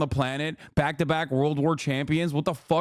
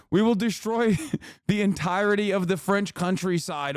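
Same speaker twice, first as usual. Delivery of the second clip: mock-menacing, laughing. Streamer threatening France over basketball, laughing through mock menace.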